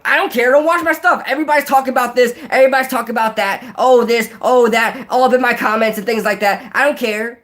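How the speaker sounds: high, fed-up mock YouTuber rant; Ron Effect. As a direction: rattle off his complaints in a hammed-up high voice. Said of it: "That's literally what he says in every video".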